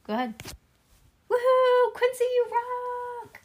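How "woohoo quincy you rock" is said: high, slow cheer for a friend; excited cheer. Real, not acted. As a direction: stretch out the shout-out.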